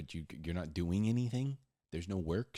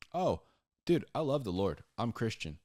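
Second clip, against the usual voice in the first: mock eager bro; 3 semitones higher, 4 dB louder than usual. Preacher voicing a churchgoer boasting of his faith, eager. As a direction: gush about the Lord lightly.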